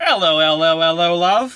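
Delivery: mocking, exaggerated, bad put-on British accent parody. Mocking the other speaker's attempt at the accent: mocking bad British accent. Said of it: "making fun of you trying to do a British accent".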